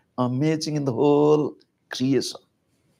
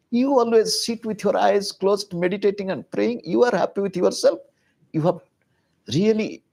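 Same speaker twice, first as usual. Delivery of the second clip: higher, heated scolding of her husband; angry complaint; 3 semitones higher than usual. Acted. Parvati berating her husband Shiva for neglecting the family, heated and reproachful. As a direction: pile on the grievances, faster at the end.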